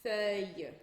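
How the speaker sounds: "feuille" drawn out, ending in a Y glide; L como I. Shown as a demonstration. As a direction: say "feuille" in French with no L heard. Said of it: "com esse mesmo som". ("feuille" em francês, terminando em som de I)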